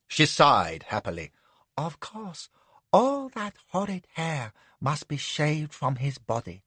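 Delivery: plan it all with lazy pleasure; contented lady. Acted. Madam muses happily.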